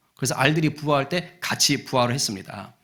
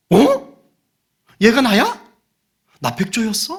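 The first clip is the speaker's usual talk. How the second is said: high, loud acted astonishment; rising disbelieving questions; startled realisation; 6 semitones higher, 8 dB louder than usual. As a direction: react like the stunned duckling. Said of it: "깜짝 놀라는 거예요".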